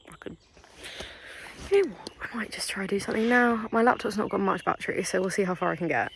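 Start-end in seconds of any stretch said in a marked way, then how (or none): 0.1-3.7 hushed, breathy aside with the voice dropped to nothing; whisper. Real, not acted. Vlogger deciding to make music now, whispered. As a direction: whisper it like a sneaky new plan.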